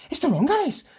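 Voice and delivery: very high quick exclamation; the Hare panicking about the wrong Alice; panicked exclamation. Acted. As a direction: blurt it out in a panic. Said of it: "sound like he's really quick".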